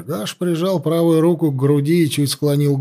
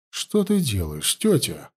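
тихий упрёк; мягко корит тётю; укоризненно; 5 dB quieter than usual. Acted. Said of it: "укоризненно спросила она". (тихо и с укором племянница тёте)

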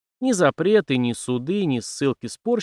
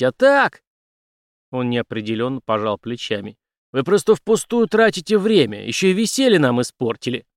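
scornful, dismissive; 5 semitones higher, 6 dB louder than usual. Acted. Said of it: "презрительно фыркнул Генри".

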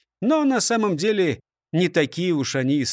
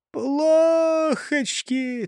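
mournful; 11 semitones higher, much slower than usual. Acted. Gloomy robber's catchword.

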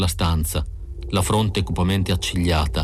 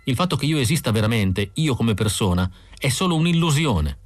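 higher-pitched, mildly distressed confession; a touch of morbid gloom, pitched up; lightly voiced gloomy android woman; 4 semitones higher than usual. Android confiding her identity crisis to the bounty hunter, mildly gloomy.

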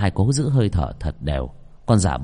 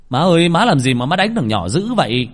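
higher, louder protest; crying out; 7 semitones higher, 5 dB louder than usual. Acted. Son shouts at his mother over the beaten boy. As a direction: call out to mother in alarm. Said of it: "Ông Hiếu la lên".

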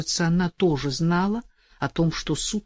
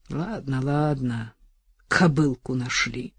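gloating; 4 semitones lower than usual. Retold or imitated. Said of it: "злорадно думала Настя".

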